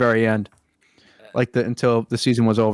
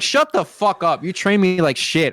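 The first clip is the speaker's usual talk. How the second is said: mock angry retort; 6 semitones higher than usual. Worker snapping back at the boss, mock angry. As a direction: fire back in a hammed-up huff.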